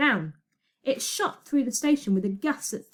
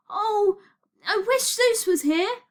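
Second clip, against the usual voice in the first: high, fretful wish; desperate wail; 11 semitones higher, 4 dB louder, slower than usual. Acted. Desperate wish on runaway train.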